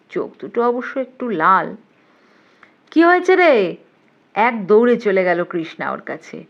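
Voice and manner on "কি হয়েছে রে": high, louder calling question; raised, urgent girl's question; eager question. A narrator's reading. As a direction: call out to a friend, wanting the news. Krishna runs up to her friend.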